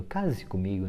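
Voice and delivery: soft, low proposal; pleading request. Shown as a demonstration. Suitor asking his sweetheart to marry him, softly pleading. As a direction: ask it quietly, as a request. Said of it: "Tá pedindo".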